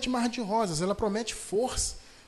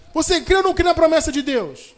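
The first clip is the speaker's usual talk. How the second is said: loud, higher preaching challenge; fervent call; 8 semitones higher, 8 dB louder than usual. Real, not acted. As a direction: rouse the congregation to answer. Preacher calling to congregation.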